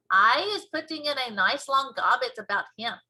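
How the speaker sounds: put-on cheerfully convince the girl, slowing at the end; BFG voice.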